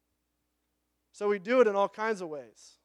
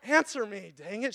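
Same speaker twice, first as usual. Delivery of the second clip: mock upset; 3 semitones higher than usual. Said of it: "She's, like, really upset".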